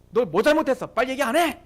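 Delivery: mildly menacing site boss interrogation; retold threatening demand. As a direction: press them for an answer, mock-stern. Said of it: "우리에게 막 협박을 하는".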